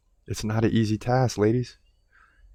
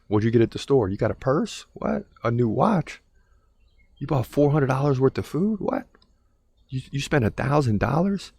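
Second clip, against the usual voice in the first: shocked husband; 4 semitones higher than usual. Retold or imitated. Man shocked by spending.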